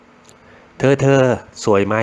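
put-on drawn-out girlfriend fishing for a compliment; girlfriend asking. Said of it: "แฟนมาถามนี่ คุณเปลี่ยนอีกโหมดเลยนะ". (เสียงแฟนถามอ้อนๆ ลากยาว ช้ามาก)

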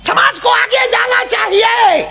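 very high, drawn-out shouted sermon parody; mock preacher scream. Comic mimics gurus who yell too much, mock preacher scream. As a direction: scream it slowly like an overblown TV guru. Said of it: "અમુક તો બહુ રાયડું નાખે".

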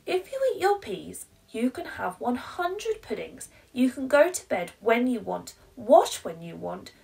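high, loud and rushed promises; desperate bribing mum. Acted. Mum bargaining, growing desperate.

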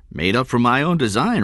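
high-pitched, proud declaration. A narrator's reading. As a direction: show off your own work proudly. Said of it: "Rudy Stone said proudly".

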